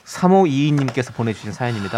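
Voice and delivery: low, smooth radio-letter voice; gentle reading. Pretend. Host introducing a listener's letter, gentle low voice. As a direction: read it gently and evenly. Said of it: "부드럽게 읽어드릴게요".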